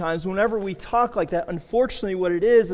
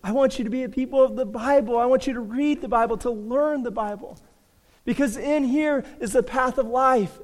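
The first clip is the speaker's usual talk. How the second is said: much higher, fast, earnest pleading voice; preacher voicing Jesus calling people to the Bible; 7 semitones higher than usual. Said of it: "Jesus is saying".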